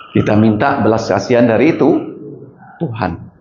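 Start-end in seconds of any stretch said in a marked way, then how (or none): none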